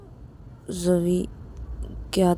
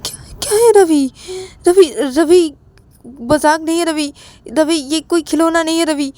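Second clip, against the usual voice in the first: 1 alarmed; 3 semitones higher, 3 dB louder than usual. Acted. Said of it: "तो तभी राहुल बोलता है".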